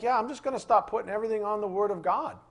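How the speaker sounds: mildly hyped-up quote, rattled off; psyched. Retold or imitated. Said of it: "he's so psyched".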